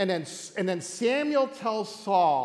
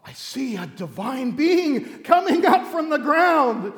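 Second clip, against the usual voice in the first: slow, high, loud proclamation; dramatic medium; 5 semitones higher, 6 dB louder, slower than usual. Acted. Woman tells Saul of the vision, dramatic and slow. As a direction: build it slowly as a stagey séance vision. Acted medium describing rising spirit.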